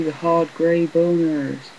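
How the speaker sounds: high, slow, gleeful drawn-out line; excited. Pretend. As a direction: savour it like a silly treat. Gleeful game enemy joke.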